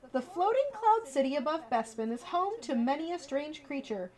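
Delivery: lively storybook read-aloud; reading to children. Acted. Streamer reading a bedtime book to viewers, lively storybook voice.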